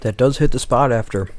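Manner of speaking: talking through a mouthful; words round a bite of food; mouth full. Real, not acted. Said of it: "Talk with your mouth full".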